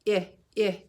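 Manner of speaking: "I, I" as a short i, like in iguana; teacher modelling the short i sound. Shown as a demonstration. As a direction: clip it to a short "i". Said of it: "I makes the sound".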